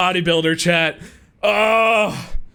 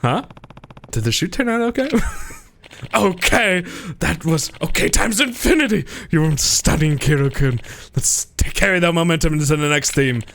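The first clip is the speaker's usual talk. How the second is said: screaming ecstatic photographer; 12 semitones higher than usual. Acted. Photographer losing it over the model's scream, higher shouting. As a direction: howl with artistic joy.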